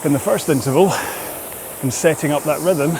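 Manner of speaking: fit a few words between each stroke, pausing for breath; talking while rowing. Real, not acted. Coach explains rhythm to rowers mid-interval, talking through exertion.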